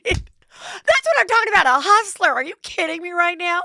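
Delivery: high, loud, laughing party gush; hammed-up, high-pitched excitement; mock gushing. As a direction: imitate an over-the-top excited hostess. Acted gushing party chat.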